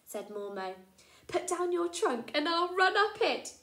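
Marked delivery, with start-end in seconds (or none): 1.3-3.5 high, louder cheeky mouse; chirpy little mouse; mouse character. Acted. Mormo suggesting a game to Poppet.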